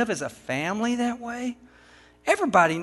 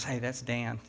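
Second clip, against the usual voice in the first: much softer, lower confidential aside; retold whisper; 8 semitones lower, 14 dB quieter than usual. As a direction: imitate a hushed word in someone's ear. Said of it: "whispered in my ear".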